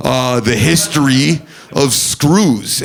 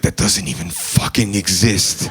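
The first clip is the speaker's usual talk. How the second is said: scoffing clerk; 6 semitones lower, 4 dB quieter than usual. Retold or imitated.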